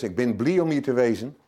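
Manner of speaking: slipping into Zeeuws dialect, a touch brighter; a warm wink in Zeeuws dialect. Shown as a demonstration. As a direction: greet them in home Zeeuws dialect. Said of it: "eigenlijk is het Zeeuws gewoon mijn moerstaal".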